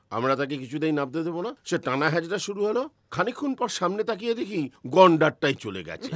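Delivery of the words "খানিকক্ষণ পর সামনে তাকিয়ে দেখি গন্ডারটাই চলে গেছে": laughing. Real, not acted. Funny rhino story punchline.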